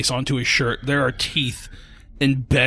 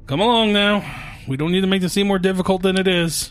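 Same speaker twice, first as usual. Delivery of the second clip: 7 semitones higher than usual. Acted. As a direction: call out coaxingly to someone in hiding. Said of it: "you can hear just him".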